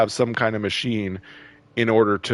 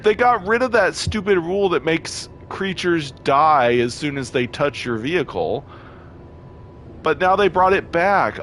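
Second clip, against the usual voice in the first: upset rant; 7 semitones higher than usual. Real, not acted. Gamer ranting to viewers about a returned bug, angry. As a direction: vent the frustration. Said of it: "I'm so mad".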